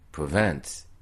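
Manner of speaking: "Provence" slow, with the vowel between "in" and "an"; in-between nasal. Shown as a demonstration. Tutor showing a compromise vowel in "Provence". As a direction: blend both nasals in "Provence". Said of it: "pour être au milieu des deux".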